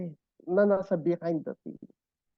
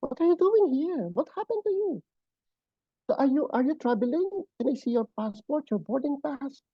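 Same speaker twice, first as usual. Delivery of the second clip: higher, urgent English questions; concerned questions; 5 semitones higher than usual. Retold or imitated. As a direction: ask her, alarmed, what happened. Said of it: "English na, sabi ko".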